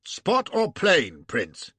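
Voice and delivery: slow Irish brogue at the table; drawn-out Irish question. Acted. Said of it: "Gough in his pigsty brogue".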